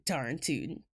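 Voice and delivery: low, quiet Southern quip; mock Southern accent. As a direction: toss out a hammed-up Southern twang.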